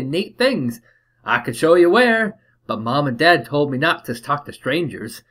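put-on eager little Cockney boy bargaining; Cockney kid. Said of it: "my best Cockney accent".

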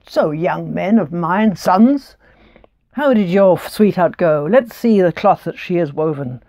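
a hint of the proud old father; father's voice. Father addresses his sons.

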